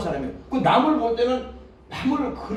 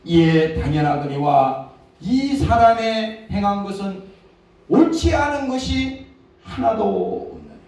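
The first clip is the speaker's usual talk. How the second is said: slow, weighty scripture reading of the thief; solemn confession; 2 semitones higher, 4 dB louder than usual. Acted. Penitent thief admitting guilt beside Jesus, solemn. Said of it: "야".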